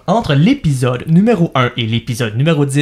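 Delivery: slow, carefully articulated words. Shown as a demonstration. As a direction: say each syllable slowly and clearly. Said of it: "je vais le dire tranquillement".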